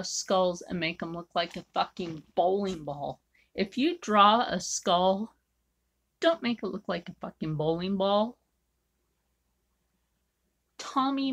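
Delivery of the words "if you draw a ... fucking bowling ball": emphatic rant. Real, not acted. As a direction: scold fellow artists with heat. Ranting advice about drawing skulls.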